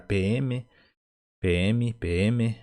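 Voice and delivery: "P M" said as pê-eme; letter-name pronunciation. Shown as a demonstration. Teacher gives learners the Polícia Militar memory aid, letter-name "P M". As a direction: sound "P M" like the two letter names. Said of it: "lembrem-se de falar da Polícia Militar".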